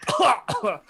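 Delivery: imitated choking gasp; short hammed-up choke; mock choking noise. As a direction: gag as if the collar is tight. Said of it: "he's just choking".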